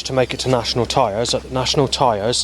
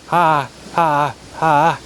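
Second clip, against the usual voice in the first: higher cawing ha ha; mock crow caw; 6 semitones higher, much slower than usual. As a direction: imitate a crow's taunting laugh. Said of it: "And then a crow goes".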